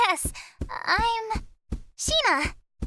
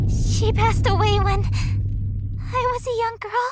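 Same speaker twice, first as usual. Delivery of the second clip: stunned disbelief; 3 semitones higher, 4 dB louder, slower than usual. Acted. Hears her mother is dead.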